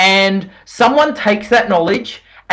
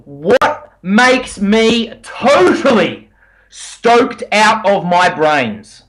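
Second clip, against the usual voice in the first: "totally" drawn out slowly with emphasis; slow question, lean hard on "totally"; stress on totally; much slower than usual. Shown as a demonstration. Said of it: "I emphasize the word totally".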